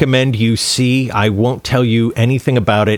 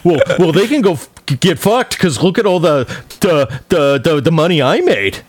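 mock bitter rant, a bit higher; bitter director; 4 semitones higher than usual. Mocking the bitter director's rant. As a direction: sneer it like a sore loser. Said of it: "Just hearing how bitter he is".

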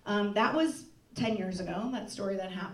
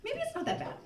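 naive hope; 6 dB quieter, faster than usual. Retold or imitated. Hopeful inner voice, denial.

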